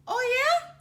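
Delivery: high, loud angry "Oh yeah?"; angry, loud comeback; mad shout. A narrator's reading. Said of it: "shouted Sister, who was mad".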